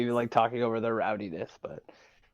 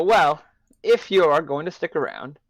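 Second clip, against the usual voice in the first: elf voice; 4 semitones higher, 5 dB louder than usual. Acted. Elf addressing the companion.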